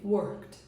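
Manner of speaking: "Worked" as one syllable closing on KT. Shown as a demonstration. Teacher recapping for learners, "Worked" with a T sound. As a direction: end "Worked" on a crisp T, no E. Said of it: "som de T".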